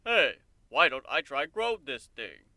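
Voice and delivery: lightly voiced eager unicorn; a hint of a loopy inventor, slowed down; crazy unicorn. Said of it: "Earthwalker to say".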